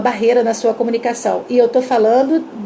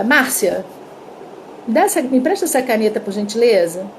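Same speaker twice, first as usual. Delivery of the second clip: kindly asking a colleague for a pen; polite request. Shown as a demonstration. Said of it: "pede pra vocês uma caneta emprestado e fala assim".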